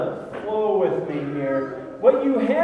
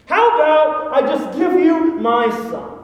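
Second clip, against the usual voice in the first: sarcastic; 3 semitones higher, 5 dB louder than usual. Acted. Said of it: "read this with some sarcasm".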